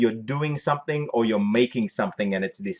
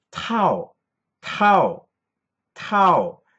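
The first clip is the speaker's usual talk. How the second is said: tao starts tight, then drops in a falling tone; 8 semitones higher, 4 dB louder than usual. Showing learners how to say a Thai word: falling tone. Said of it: "your throat starts tight and then falls down".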